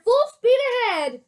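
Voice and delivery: high, loud command; excited shout. A narrator's reading. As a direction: cry it out full of glee. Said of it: "waving his stick in the air".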